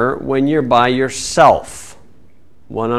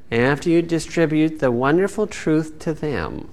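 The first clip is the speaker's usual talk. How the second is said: mock sugary sweetness. Preacher mocking gentle rebukers, sarcastic honeyed tone. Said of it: "No, it says, "Rebuke them sharply".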